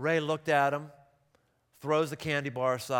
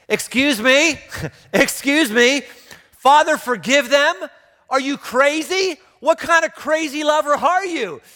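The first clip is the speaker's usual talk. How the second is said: much higher, louder, slow stunned disbelief; incredulous outburst; 11 semitones higher, 10 dB louder than usual. Real, not acted. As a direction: shout it like you can't believe your ears. Preacher mocks disbelief at forgiveness.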